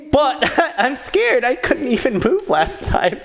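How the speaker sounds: high, hesitant small voice; timid little mage. Acted. Young mage protests to the knight, timid high voice. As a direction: play a scared little mage, high-pitched.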